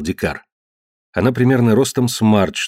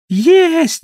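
high shrieking squeal; 5 dB louder than usual. Acted. Old mother to the family, squealing with hunger. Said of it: "завизжала серолицая фигура".

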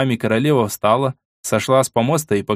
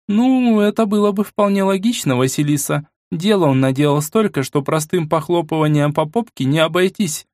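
much higher, light ironic woman; female voice; 6 semitones higher than usual. Acted. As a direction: play the younger woman, lightly wry. Irina voiced high.

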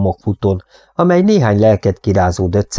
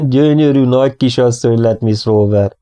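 beaming, lightly raised voice; hearty old cowboy greeting; 4 semitones higher than usual. Acted. Old cowboy Bob welcoming Molly at the station, beaming. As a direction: welcome her back like a proud old friend.

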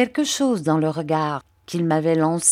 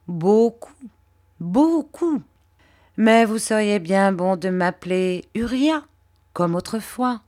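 lightly voiced fawning clerk, a touch higher; oily, humble flattery, pitched a little up; Uriah Heep; 4 semitones higher than usual. Uriah fawning over Mr Copperfield, lightly voiced servile tone.

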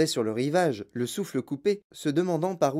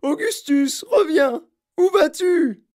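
high, loud desperate call; panicked shriek for a son; frantic mother's yell; 14 semitones higher, 8 dB louder, slower than usual. A narrator's reading. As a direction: scream after your child, rising higher. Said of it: "hurla madame Gloop".

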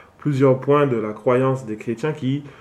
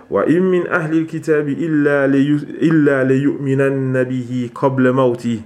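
quick, measured Arabic recitation; Quran recitation; faster than usual. Real, not acted. Teacher quoting Allah's words to his students, Quran recitation. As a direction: recite the verse in an unbroken, even flow.

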